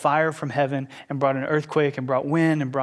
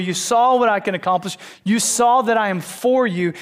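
louder and higher, driving each you saw; a preacher booming God's rebuke; rebuking voice of God; 5 semitones higher, 4 dB louder than usual. Acted. God confronting runaway prophet Elijah, loud rebuke.

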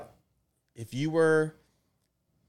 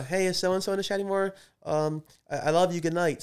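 lightly voiced girl, a little higher; normal voice; 6 semitones higher than usual. Redoing the daughter's chat message in a normal voice, lightly raised. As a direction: read it as the daughter without hamming it up. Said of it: "your normal voice".

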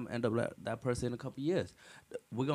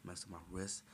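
low, very soft imitation of complaining; mock complaining; 5 semitones lower, 18 dB quieter than usual. Imitating little brother listing injuries, mock complaining. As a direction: list the injuries in a small, low mock moan. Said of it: "He's over here complaining like it's important".

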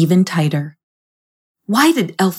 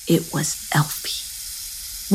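quiet whisper; 9 dB quieter, much slower than usual. A narrator's reading. Ominous reveal of the snake.

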